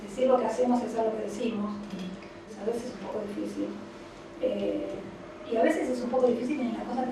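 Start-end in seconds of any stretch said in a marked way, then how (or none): none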